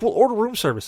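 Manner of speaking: high-pitched retold bickering; high mock exasperation; exasperated suggestion. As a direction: imitate a fed-up brother arguing. Brother argues about the food.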